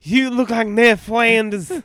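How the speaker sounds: slow loud heel taunt; wrestling promo. Acted. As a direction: drag out the insult. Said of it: "promo on Gacy".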